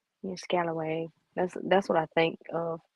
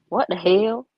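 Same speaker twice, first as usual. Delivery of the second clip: louder, punchy mock "What the hell?"; imitating Cindy; 6 dB louder than usual. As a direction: do Cindy's version of the exclamation. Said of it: "here's Cindy's".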